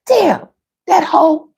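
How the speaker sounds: high, slow laughing wail; mock wail. Caught partner wailing that she told, laughing. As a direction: whine like someone caught out.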